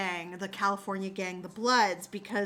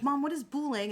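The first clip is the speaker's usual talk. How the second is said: put-on mildly puzzled kid, slightly higher; confused child; 4 semitones higher, faster than usual. Retelling little dude asking mom, mildly confused. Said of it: "very confused".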